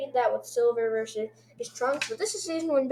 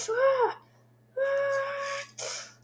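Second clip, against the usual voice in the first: high yelp, then a held squeal; high-pitched cry. Pretend. Cries out in the intro.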